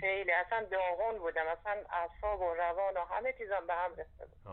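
caller heard through phone line; over a landline phone. Real, not acted. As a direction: narrow telephone sound.

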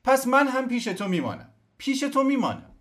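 very high, loud cry; shouting. Acted. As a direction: cry out, desperate to stay. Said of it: "فریاد زد".

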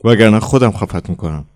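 furious narrated shriek; ear-splitting yell. A narrator's reading. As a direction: shriek it, then threaten. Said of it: "با صدای گوشخراش فریاد کشید".

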